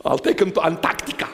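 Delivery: quick line squeezed out through laughter; laughing. Real, not acted. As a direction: chuckle through the joke. Laughing at own joke.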